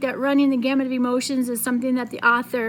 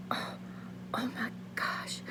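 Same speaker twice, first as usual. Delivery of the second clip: almost a whisper; 16 dB quieter than usual. Acted. Mother seeing the sacred fern, awed near-whisper. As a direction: breathe the words in awe. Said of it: "almost in a whisper".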